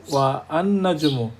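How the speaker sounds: ওয়া আন নাজমু with an extra আ before the nun; wrong reading. Shown as a demonstration. Teacher showing a second mistaken form. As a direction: say ওয়া আন নাজমু with the vowel kept.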